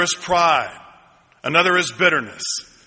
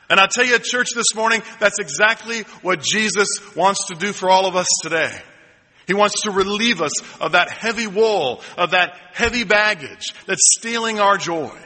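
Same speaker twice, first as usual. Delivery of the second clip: rising preacher fervor; 2 semitones higher than usual. Real, not acted. Preacher addresses church, rising.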